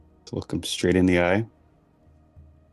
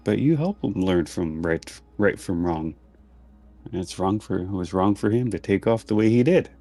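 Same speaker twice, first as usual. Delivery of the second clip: disappointed mom voice. Acted. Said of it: "Disappointed mom voice".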